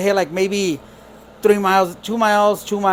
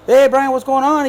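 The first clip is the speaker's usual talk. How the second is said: higher-pitched, friendly phone hello; mock cheery greeting; 6 semitones higher than usual. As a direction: greet the boss brightly, imitating a coworker. Charlie cheerfully answers boss's call.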